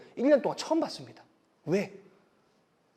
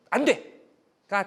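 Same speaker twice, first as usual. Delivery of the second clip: firm no; 3 semitones higher, much slower than usual. Shown as a demonstration. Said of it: "단호한 게 아니에요".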